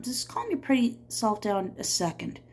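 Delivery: slow drawl. Acted. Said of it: "the sheriff said in a slow drawl".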